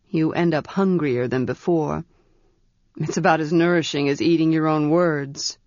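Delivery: lightly voiced mage, dry humour; wry mage. Ged explains illusion.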